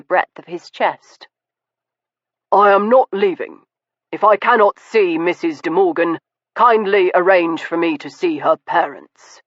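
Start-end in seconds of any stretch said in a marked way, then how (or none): 2.5-9.4 firm gentleman holding his ground; Stoker, firm and stern. Acted. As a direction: plant your feet and refuse calmly.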